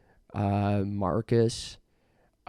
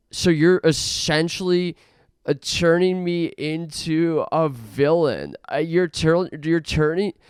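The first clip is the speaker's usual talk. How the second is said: mock ranting; 3 semitones higher, 4 dB louder than usual. Ranting at bedbugs, voice climbing.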